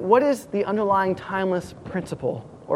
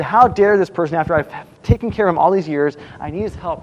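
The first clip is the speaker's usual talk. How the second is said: mildly indignant outburst, loud at the start; angry; 4 dB louder than usual. Retold or imitated. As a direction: act out David's outrage with some restraint. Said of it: "He gets angry".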